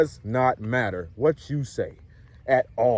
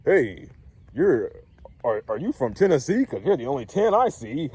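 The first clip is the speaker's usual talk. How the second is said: hammed-up, hesitant pickup line; mock pickup line; 3 semitones higher than usual. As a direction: deliver a cheesy line in mockery. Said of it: "pickup lines".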